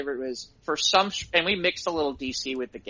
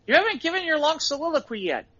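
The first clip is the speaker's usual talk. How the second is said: mock pedantic complaint; 10 semitones higher than usual. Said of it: "this is something Lou would say".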